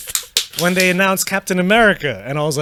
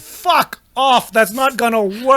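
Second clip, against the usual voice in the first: incredulous; 4 semitones higher, slower than usual. Retold or imitated. Retold reaction to Guardians announcement.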